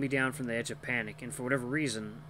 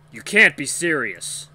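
slow, incredulous outburst; loud protest; 2 semitones higher, 12 dB louder, slower than usual. A narrator's reading. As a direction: protest loudly, drawing out the words. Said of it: "The brute protests".

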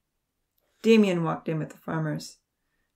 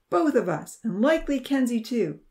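threatening; 6 semitones higher, 3 dB louder than usual. A narrator's reading. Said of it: "Charlie replied".

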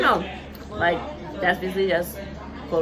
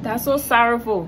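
Liberian accent; 3 semitones higher than usual. Shown as a demonstration. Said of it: "Liberian accent".

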